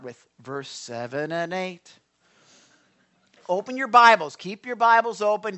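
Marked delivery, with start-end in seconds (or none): 3.5-5.6 louder, urging command; forceful urging. Real, not acted. Pastor urges congregation to open Bibles, loud and firm. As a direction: push them to open their Bibles. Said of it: "I'm not yelling at you".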